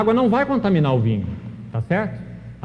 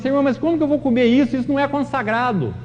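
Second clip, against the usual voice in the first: higher-pitched mock protest, as Peter refusing; 6 semitones higher than usual. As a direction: plead against the unclean food in a raised voice. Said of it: "como se Pedro falasse assim". (Pedro protestando, voz mais aguda)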